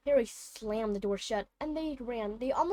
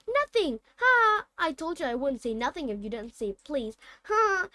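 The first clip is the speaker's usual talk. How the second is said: high, loud mocking cackle; triumphant poltergeist jeer; gleeful taunt; 3 semitones higher, 5 dB louder than usual. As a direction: crow over the tricked caretaker.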